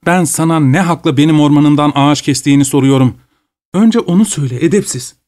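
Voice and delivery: high, sharp imperious tone; indignant demand. Acted. Lady demanding an answer from the peasant, high and imperious. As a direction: put him in his place.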